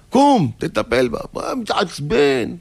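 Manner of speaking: high, drawn-out commanding yell; scolding order. Acted. Angel scolding husband about his wife, high commanding yell. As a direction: order him up sharply, then stretch the taunt.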